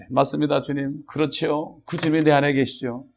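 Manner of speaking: softly spoken assent in prayer; understated, personal praying demonstration; conversational prayer. Shown as a demonstration. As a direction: quietly agree with the Lord. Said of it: "이게 기도예요".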